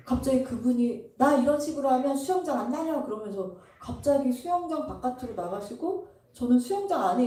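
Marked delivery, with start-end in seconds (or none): 1.2-3.0 retold huffy threat. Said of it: "막 화내고 짜증내시더니".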